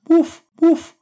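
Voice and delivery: two loud high imitated woofs; double dog bark. Timmy woofing at the happy ending, two barks.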